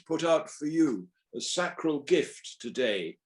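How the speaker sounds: measured verse reading with weighted phrases; sonnet recital. Acted. Recites Shakespeare sonnet version.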